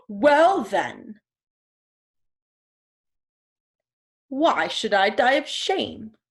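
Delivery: mildly proud storybook animal; puffed-up chest. Acted. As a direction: puff out your chest a little as you say it. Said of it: "puffed up his chest and he said".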